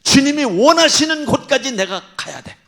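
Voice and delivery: loud high fervent cry; preaching shout. Real, not acted. Preacher exhorting the congregation. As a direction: drive it home at full force.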